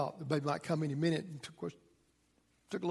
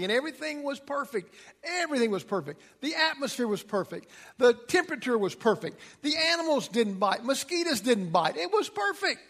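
a touch of wonder; 6 semitones higher than usual. Acted. Building the idyllic Eden picture.

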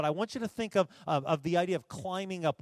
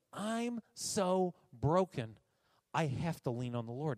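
slow, weighty confession. Shown as a demonstration. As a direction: linger on I'm so broken before leaning on the Lord. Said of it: "He's talking about this idea that I'm so broken".

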